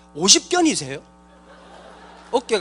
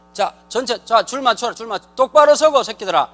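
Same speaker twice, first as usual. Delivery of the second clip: drill sergeant; 2 semitones higher, 4 dB louder than usual. Pretend.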